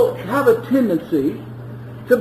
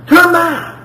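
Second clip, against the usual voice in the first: higher, pleading repeat of Turn back; emotional plea; 5 semitones higher than usual. Acted. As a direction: ask it again, still begging. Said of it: "God is getting emotional here".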